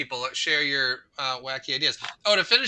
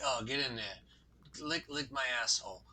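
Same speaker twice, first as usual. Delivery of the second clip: a singer's voice; 5 semitones lower, 12 dB quieter than usual. Retold or imitated. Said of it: "But he's like".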